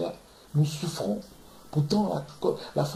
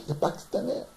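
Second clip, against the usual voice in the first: whispered aside; 7 dB quieter than usual. Real, not acted.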